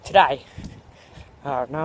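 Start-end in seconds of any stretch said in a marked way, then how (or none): 0.0-0.4 Today said with a botched Australian twang instead of British; slipped Australian accent. Acted. Host fumbling his intro, accent slipping into Australian. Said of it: "it's an Australian, that's not good".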